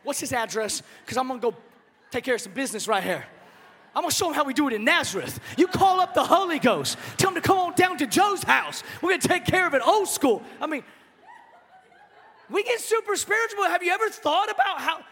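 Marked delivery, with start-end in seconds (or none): 0.0-10.4 hammed-up threat, climbing to loud; comic bravado, ready to fight; a joking tough-guy "old school" challenge; mock tough Joe, building louder. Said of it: "He's like".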